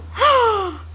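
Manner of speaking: gasp. Real, not acted. Delighted gasp at new shoot.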